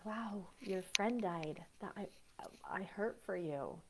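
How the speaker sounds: slow, soft, heartfelt condolence; slow sincere sympathy. Shown as a demonstration. Comforting someone whose friend died, slow sincere sympathy. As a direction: linger on each word like you really mean it. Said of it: "I'm gonna use a personal experience".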